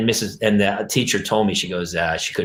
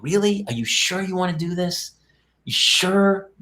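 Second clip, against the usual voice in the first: high-pitched, doubtful parent; skeptical questioning; 7 semitones higher, slower than usual. Retold or imitated. Mother checking her shy child really wants the talent show, doubtful and high. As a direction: gently question it, voice lifted high.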